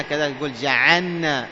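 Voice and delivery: جعلنا with the lam merged into the nun, said جعنّا; جعلنا imitating the mistake, جعنّا with a doubled nun; wrong merged lam. Teacher mimics students merging lam: جعلنا as جعنّا. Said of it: "يعني يراها أنها أخف".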